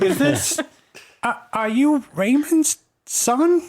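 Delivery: put-on high, slow, choked-up old woman; teary grandma. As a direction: ask it through tears, hopeful. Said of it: "She's like".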